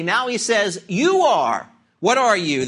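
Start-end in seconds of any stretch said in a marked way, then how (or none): 0.9-1.7 "You are" with firm weight on "You"; emphatic stress. Shown as a demonstration. Preacher repeats Jesus' words to the congregation, "You are" said emphatically. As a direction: press on "You" and let "are" fall. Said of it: "and that's emphatic".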